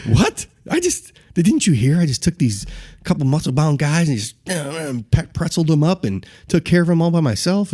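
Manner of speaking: cocky disbelief. Acted. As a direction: act out a young braggart, affronted. Acting his cocky younger self.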